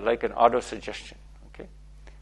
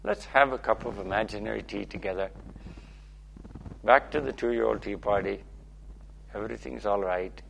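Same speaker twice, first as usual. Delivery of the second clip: soothing validation; 3 semitones lower than usual. Shown as a demonstration. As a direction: reassure like a kind friend. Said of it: "You'll just get validated and say".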